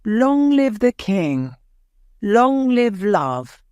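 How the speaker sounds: mild narrated crowd cheer; crowd shouting. A narrator's reading. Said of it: "they shouted".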